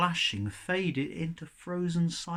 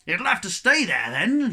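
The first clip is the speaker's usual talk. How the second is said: loud, higher call; sailor's yell; 5 semitones higher, 8 dB louder than usual. A narrator's reading. Sailor yelling back while jumping down. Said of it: "yelled Bo".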